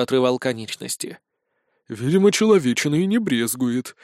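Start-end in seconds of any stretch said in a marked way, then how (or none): 1.9-3.9 wary. Acted. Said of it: "произнёс Спирт с опаской".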